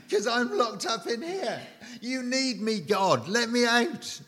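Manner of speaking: hammed-up outraged prisoner yelling to be freed; mock scream at God. Paul pleading with God from prison, mock scream. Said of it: "he would scream at God".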